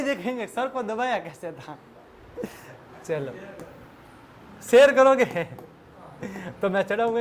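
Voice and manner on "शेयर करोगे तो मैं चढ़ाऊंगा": sudden loud share करोगे; loud warning. Real, not acted. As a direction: bark it as a warning. Teacher warns students about sharing video. (ज़ोर से चेतावनी)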